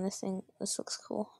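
hushed whisper to herself; whispered aside. Real, not acted. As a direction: breathe it out, fascinated. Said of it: "distracted, examining a toy".

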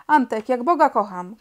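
Felek yells in fury; angry shout. Acted. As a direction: shout it at the troublemaker. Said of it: "krzyknął Felek".

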